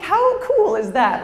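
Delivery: high, slow, delighted cry; thrilled. Retold or imitated. Thrilled by the call about her voice, high and slow. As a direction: gush with slow amazement. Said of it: "I'm like".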